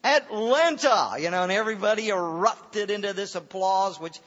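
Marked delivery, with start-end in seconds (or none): 0.0-1.1 mild mock announcement. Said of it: "shouted out".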